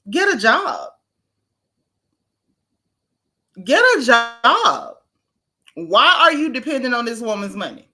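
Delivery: exasperated call-out, stretched and high; mock scolding. Scolding absent ex-husband over money.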